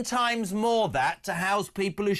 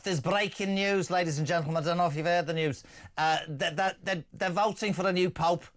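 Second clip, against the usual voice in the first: put-on Scouse-ish accent. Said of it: "why am I talking like that?".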